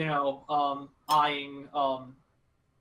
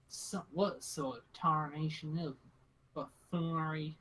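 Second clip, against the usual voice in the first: suspicious; 6 dB quieter than usual. Acted. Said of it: "she narrows her eyes".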